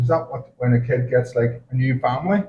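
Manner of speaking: put-on quoting a kid in a broad Belfast accent; lightly voiced Belfast schoolboy. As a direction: mimic the kid's Belfast twang. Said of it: "In Belfast accent".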